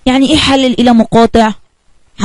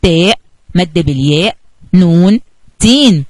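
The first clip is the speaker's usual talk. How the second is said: slow modelled reading. Shown as a demonstration. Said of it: "كمان مرة معايا".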